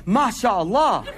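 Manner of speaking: slow, laughing mashaAllah; drawn out through a laugh. Retold or imitated. Convert cheerfully says mashaAllah to mugging news, laughing.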